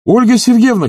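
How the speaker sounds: high, loud call; calling after the woman walking away down the path; shout. A narrator's reading. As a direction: shout her name after her. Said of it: "крикнул он".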